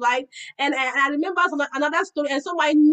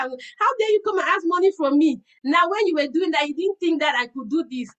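raised, indignant scolding; indignant rant in the car. Retold or imitated. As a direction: tell them off with wounded pride. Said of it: "That's how I was talking in my car".

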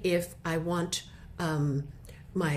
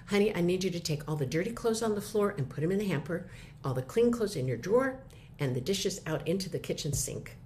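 calm tone. Shown as a demonstration. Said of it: "calm tone of voice".

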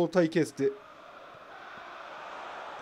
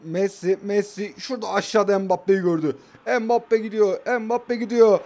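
louder, higher play-by-play building up; building commentary; 3 semitones higher, 6 dB louder than usual. Real, not acted. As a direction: rise with the attack. Commentating own attack, building. (heyecanı artan spiker gibi)

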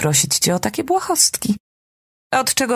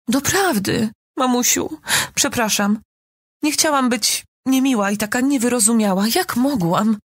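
sarcastic fake apology; 5 semitones higher than usual. Daughter mocks mother with fake apology.

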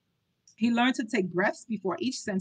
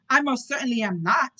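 mild indignant exclaim; 3 semitones higher, 4 dB louder than usual. Acted. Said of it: "righteous indignation".

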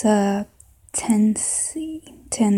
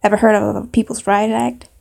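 put-on indignant Southern accent; 4 dB louder than usual. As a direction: protest loudly in a Southern accent. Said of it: "maybe a southern accent".

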